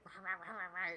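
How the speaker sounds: mock harsh German. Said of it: "you're sweeter".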